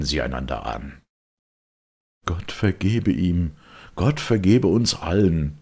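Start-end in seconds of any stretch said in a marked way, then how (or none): 2.3-5.6 solemn. A narrator's reading. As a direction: speak it gravely and solemnly. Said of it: "sagte der Advokat feierlich".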